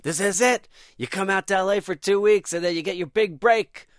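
high, elated outburst; excited. Retold or imitated. Comedian reliving the news of his big break, excited. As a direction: gush as if stardom has just arrived.

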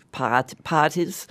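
imitating a Boston accent, dropped R. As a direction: says parties the Boston way. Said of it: "you still got your Boston accent".

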